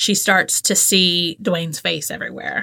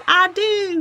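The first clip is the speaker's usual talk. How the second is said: high, dramatic Whitley I do; lightly hammed bride; 11 semitones higher than usual. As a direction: do your best Whitley. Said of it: "in her best Whitley".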